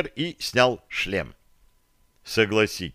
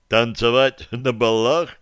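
scornful snort. Acted. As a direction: repeat it with a scoff. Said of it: "фыркнул Бозел".

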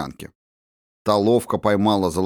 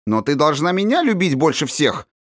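demanding; 7 semitones higher than usual. A narrator's reading. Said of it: "топнула ножкой княжна".

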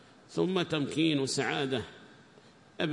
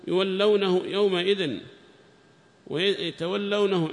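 raised, measured text-reading voice; reading aloud; 4 semitones higher, 4 dB louder than usual. Acted. Student reads the tafsir text to the teacher in a raised reading voice. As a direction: read the commentary out to the class.

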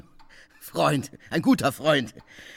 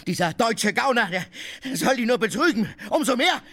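screaming; 11 semitones higher than usual. Acted. Drunk guest yelling insults for the household to hear, jeering shout. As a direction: rant it out, jeering and laughing. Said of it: "Ich will schreien!".

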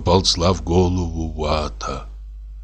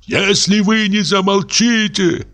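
choking with rage; 12 semitones higher than usual. Acted. Lodger threatening the neighbours, furious. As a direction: sputter it in fury. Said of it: "захлёбываясь от злости".

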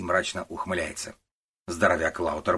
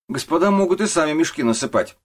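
much higher, louder jeer; mocking worker; 10 semitones higher, 8 dB louder than usual. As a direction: sneer at the clerks. Рабочий насмехается над служащими. (рабочий громко насмехается над служащими)

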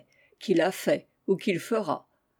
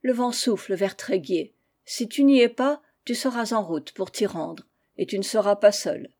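grave tone. Acted. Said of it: "et dit d'un ton grave".

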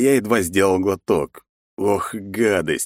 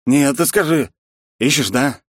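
put-on drunk insistence; 8 semitones higher, 4 dB louder than usual. Drunk man presses hero.

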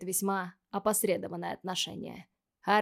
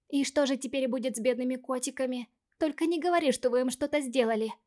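excited; 5 semitones higher than usual. Acted. Ивейти вмешивается, взволнованно.

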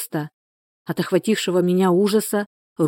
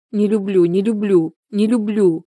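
she can't stop saying it; anguished repetition; 3 semitones higher than usual. A narrator's reading. Distraught sister pleading her heart to Nikol, anguished.

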